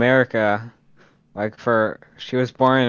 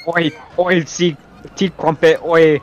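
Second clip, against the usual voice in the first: mock British oi; 4 semitones higher, slower than usual. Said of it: "Yeah, for British".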